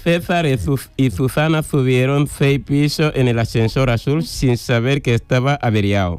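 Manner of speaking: César and Susana with every s lisped as "th", Andalusian ceceo; lisping Andalusian accent. Real, not acted. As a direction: read it with an Andalusian lisp. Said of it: "La primera parte ha sido más ceceo". (ceceo andaluz)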